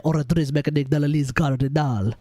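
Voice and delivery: attempted French accent on the name. Shown as a demonstration. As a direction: have a rough go at French. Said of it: "what the hell accent I put on".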